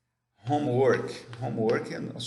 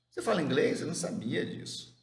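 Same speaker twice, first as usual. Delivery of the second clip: acted surprise; 4 semitones higher, faster than usual. Same surprised reaction, translated.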